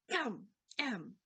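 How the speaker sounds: a mock little throat clear, crow-style. Crow clears its throat before speaking, mock ahem. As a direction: clear the throat like a bird warming up. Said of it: "sounds like he's clearing his throat".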